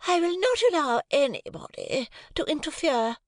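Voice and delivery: high, imperious haughty voice; haughty wife. A narrator's reading. Wife rebuffing her husband, high and haughty. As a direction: refuse with icy pride. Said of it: "said Missus Pocket".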